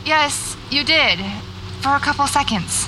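urgent, unnerved protest; agitated insisting. Acted. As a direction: push back, still shaken. Insisting friend disappeared.

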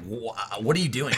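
imitating baffled viewers, stammered start; playful retold disbelief with a laugh; mock bafflement. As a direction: act out a confused reaction, amused. Acts out viewers' baffled reaction.

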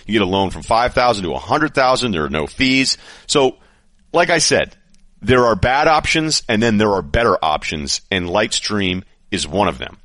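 upbeat host-read ad. Acted. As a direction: sell it like a sponsor spot. Host reads sponsor ad.

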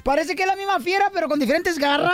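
fast, high teasing rant; joking complaint. Real, not acted. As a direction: rush it out like a teasing jab. (queja burlona y rápida)

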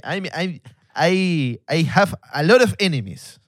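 put-on lightly accented English, like the Tinder Swindler; a hint of the Israeli con man; Tinder Swindler impression. Guest imitates the Tinder Swindler, lightly accented English. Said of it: "me parezco al estafador de Tinder".

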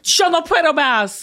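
emphatic learner's Spanish; attempted Spanish accent. Shown as a demonstration. Southerner echoing her teacher, imitation Spanish accent. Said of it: "I think you got there".

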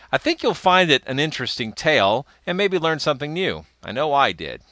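scripted host introduction with lively rises and falls; podcast intro read. Real, not acted. Host welcomes listeners and previews two monster stories, polished intro read. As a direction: present it like a prepared show opener.

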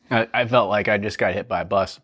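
hoarse and winded after a coughing fit; strained after choking. Real, not acted. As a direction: voice worn out from the burn. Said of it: "You sound like it, too".

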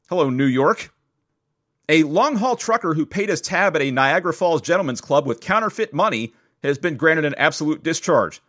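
lively, measured podcast news read. Acted. Host reads a Valentine's biscuit story, upbeat news read. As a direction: read the wire story to listeners.

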